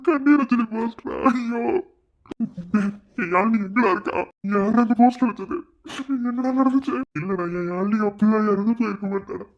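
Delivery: put-on boy protests that Yazhini cannot be dead; distraught disbelief. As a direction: refuse to believe it, voice straining. Disbelief at death poster.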